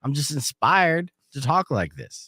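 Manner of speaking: lightly faked Ted Lasso-style accent; half-hearted hammy accent; shitty put-on accent. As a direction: put on a bad folksy American accent. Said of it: "this whole game in a shitty accent".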